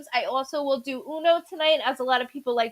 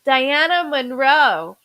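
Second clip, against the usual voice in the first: calling out; 6 dB louder, much slower than usual. Real, not acted. Calling out name on live.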